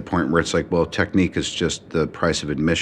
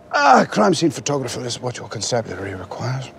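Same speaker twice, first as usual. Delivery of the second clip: crisp English RP accent line; 8 semitones higher than usual. Shown as a demonstration. American actor showing off his English accent. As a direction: deliver it in a plummy English accent. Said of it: "I don't know how many times I can say".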